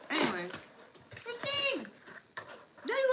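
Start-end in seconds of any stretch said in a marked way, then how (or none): 1.2-3.1 calling out. Real, not acted. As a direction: call her name out as she walks in. Calling out to arriving friend.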